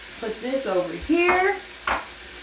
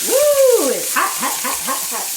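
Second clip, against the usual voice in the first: yelp at the heat; 5 semitones higher than usual. Real, not acted. Burn from the hot stove.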